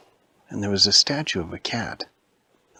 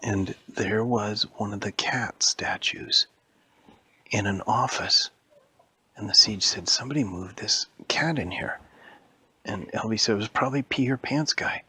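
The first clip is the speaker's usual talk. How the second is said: spooky whisper. A narrator's reading. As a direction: whisper the scary part to the child. Spooky part of bedtime story.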